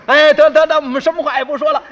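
eager exclamation. Acted. Brothers eagerly agree to leave.

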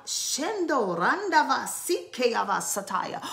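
flowing ecstatic tongues; speaking in tongues. Real, not acted. Preacher praying in tongues between exhortations. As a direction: break into tongues.

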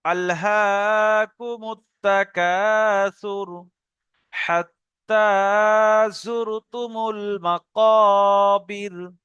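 very slow chanted recitation; Quran recitation. Shown as a demonstration. Teacher revises the earlier verse with the new one, slow chanted recitation. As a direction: chant both verses slowly, drawing out the vowels. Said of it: "এটা কি পড়লাম দেখি".

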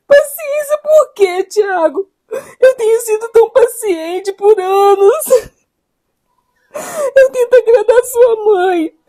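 crying, wounded protest; tearful reproach. Acted. Wife to husband asking her for patience, tearful reproach. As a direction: let the hurt spill out in sobby accusations.

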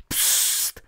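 sharp unvoiced shh; hissed hush. A narrator's reading. Hagrid znovu sykne na děti, šeptem. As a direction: hiss them quiet. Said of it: "zasíčel Hagrid znovu".

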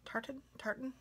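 "Tartan" repeated softly, each with a rising question. Shown as a demonstration. Vlogger testing how to pronounce tartan, soft and questioning. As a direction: test "Tartan" twice, quiet and unsure. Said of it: "say it like that".

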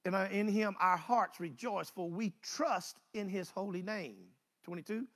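slow, solemn psalm reading; scripture reading. Acted. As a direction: stretch each word of the verse like a prayer. Rereading the psalm.

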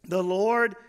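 very slow, weighty declaration; solemn declaration. Retold or imitated. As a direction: declare it word by word, drawing each one out. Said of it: "making a declaration".

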